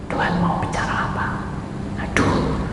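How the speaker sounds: put-on breathless whisper of a dying child; a faint, frightened whisper. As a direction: barely voice the words. Dying child's words to parents.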